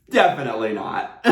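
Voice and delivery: laughing through a cheerful definitely not; big smile. Retold or imitated. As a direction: grin and agree, giggling. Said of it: "And with a big smile".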